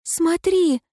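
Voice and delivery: piercing shout. Acted. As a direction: force her to see the truth. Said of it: "закричала девчонка".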